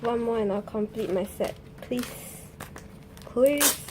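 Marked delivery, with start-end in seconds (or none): 1.8-2.4 soft whispered begging; hushed, hopeful plea. Real, not acted. Begging for one more card. 3.2-3.8 louder, voiced begging; insistent, hopeful plea; eager plea. Real, not acted.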